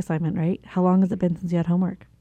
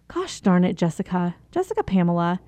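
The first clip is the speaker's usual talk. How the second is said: harsh self-scolding; 2 semitones lower than usual. Retold or imitated. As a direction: scold yourself like a stern parent. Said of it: "I start saying".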